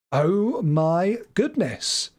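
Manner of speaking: slow drawn-out "oh my goodness"; surprised. Real, not acted. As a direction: gasp it out in disbelief. Reacting to the wrong answer.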